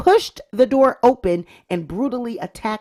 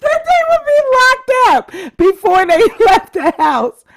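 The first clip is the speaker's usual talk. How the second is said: high, loud, wailing through laughter; helpless laughing read; laugh-crying; 10 semitones higher, 9 dB louder than usual. Real, not acted. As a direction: break down again mid-sentence. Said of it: "so I can finish".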